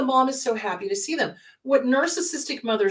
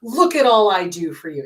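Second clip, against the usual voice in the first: scornful mother scolding, lightly voiced; wicked stepmother; 4 semitones lower, 4 dB louder than usual. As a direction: sneer at the child like a bitter mother. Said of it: "narcissistic moms do the same thing".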